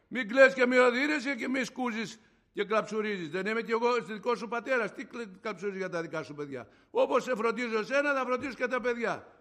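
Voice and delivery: stentorian divine voice. Retold or imitated. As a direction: reassure a son with loud authority. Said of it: "αντρική στεντόρια, δυνατή, φοβερή".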